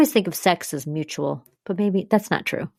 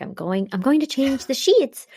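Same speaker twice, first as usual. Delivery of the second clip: robot acting mode; 7 semitones higher than usual. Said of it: "her weird robot acting mode".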